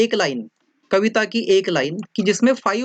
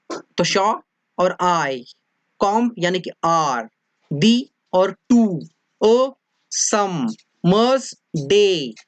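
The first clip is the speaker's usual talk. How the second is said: each pair short then drawn out on "आई", "आर", "टू", "सम", "डे"; "शॉ" short, "आई" long, and likewise for each pair; short-long syllable pairs; slower than usual. Shown as a demonstration. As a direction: split the syllables, stretching "आई", "आर", "टू", "सम", "डे". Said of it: "first one is short".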